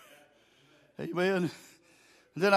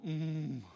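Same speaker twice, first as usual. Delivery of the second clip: imitated groan; 7 dB quieter than usual. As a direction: groan quietly as if praying without words. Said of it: "with groanings which cannot be uttered".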